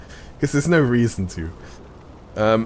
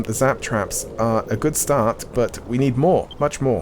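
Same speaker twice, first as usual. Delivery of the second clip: put-on Welsh accent; 2 semitones higher than usual. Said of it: "put up the Welsh voice".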